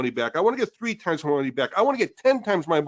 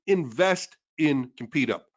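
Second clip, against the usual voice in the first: Invest in Competup said slow and lower, Invest leaned on; stress on invest; 4 semitones lower, slower than usual. Shown as a demonstration. Host dictating the phrase viewers should type, slow and stressed on Invest. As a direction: put the weight on Invest, slowly. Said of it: "I want you to say".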